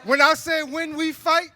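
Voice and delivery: loud call to the crowd; rally speech. Real, not acted. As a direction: set up the chant, loudly. Call and response setup.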